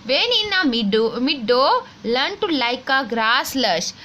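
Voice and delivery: put-on slow, careful textbook reading for children; reading aloud slowly. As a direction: read each word clearly for the class. Reads the rhyme lines slowly. (बच्चों के लिए धीरे-धीरे पढ़ना)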